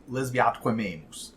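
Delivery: lesbiatque memus run together as one word; elided Latin. Shown as a demonstration. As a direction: blend lesbia atque amemus into lesbiatque memus. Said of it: "pronounced together like".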